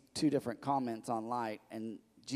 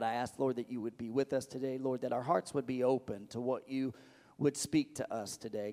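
prayer. Acted. Pastor leads congregation in prayer.

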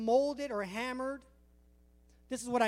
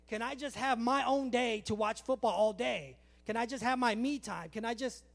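complaining sword. Acted. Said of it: "if the sword could talk".

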